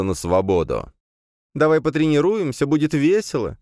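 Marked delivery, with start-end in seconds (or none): 1.5-3.6 very high mocking singsong; sarcastic mimicking. A narrator's reading. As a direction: parrot the words back sarcastically. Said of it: "саркастически передразнила".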